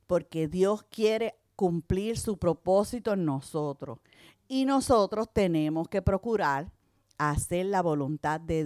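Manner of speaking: prédica pausada y enfática; predicación. Acted. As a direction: exhorta a la iglesia con calma firme. Predica a la congregación. (predicadora exhorta a la congregación a quitar su piedra, pausada)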